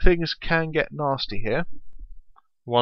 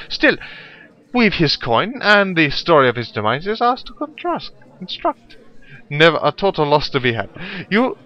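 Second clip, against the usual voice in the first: put-on lightly done German accent thief; a rough attempt at a German accent; 5 semitones higher, 4 dB louder than usual. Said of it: "my awful German accent".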